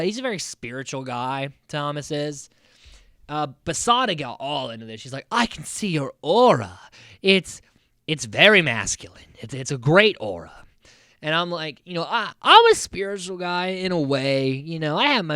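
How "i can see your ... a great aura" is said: loud, hammed-up imitation of a gushing aura reader; theatrical mystic. Recapper imitates Sada reading Thomas's aura, theatrical. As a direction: proclaim it like a dramatic psychic, mock-impressed. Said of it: "do we have to do all this the-, theatrics".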